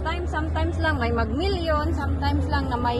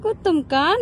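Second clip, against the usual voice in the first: put-on baby talk; 2 semitones higher, 3 dB louder than usual. Mother cooing to baby.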